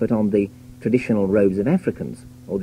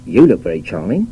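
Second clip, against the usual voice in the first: sincere compliment; 3 semitones lower, 4 dB louder than usual. Shown as a demonstration. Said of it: "A liberated West Countryman might say".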